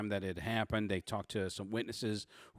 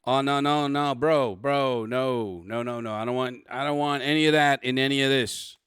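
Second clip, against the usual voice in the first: lightly hammed New York Italian cop refusing; 3 semitones higher, 7 dB louder than usual. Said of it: "I went New York Italian on this one".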